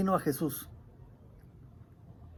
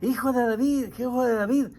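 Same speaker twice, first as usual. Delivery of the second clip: mildly raised, imploring call; heartfelt cry; 3 semitones higher than usual. Retold or imitated. Blind man begs Jesus for healing, crying out from the heart. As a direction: plead as if from the heart. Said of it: "clamaba desde dentro de su corazón".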